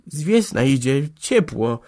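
halting, faltering answer; mild stammer. A narrator's reading. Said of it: "jąkała".

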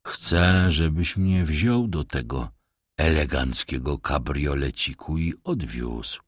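a sly beggar bowing with false politeness; rough vagrant voice. Acted. Stranger demands the ride.

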